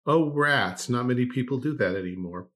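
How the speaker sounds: dripping with mock surprise; sarcastic. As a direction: play it sarcastic, faux shocked. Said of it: "okay, enough of the sarcasm".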